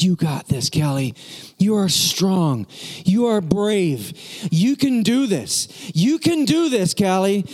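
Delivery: slow, measured pep talk, gradually rising; firm encouragement. Retold or imitated. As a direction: coach the child word by deliberate word. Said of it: "now I'm yelling louder than that".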